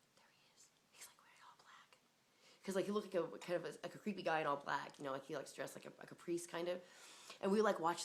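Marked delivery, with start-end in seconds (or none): 0.1-2.0 hushed whisper while spying. Retold or imitated. Hushed whisper spying on him through the window. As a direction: whisper it so he won't hear.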